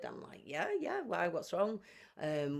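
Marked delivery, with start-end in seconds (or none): 0.4-1.8 much higher, anxious rush of questions; alarmed questions. Retold or imitated. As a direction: jump to alarm as police arrive. Police at the door, alarmed.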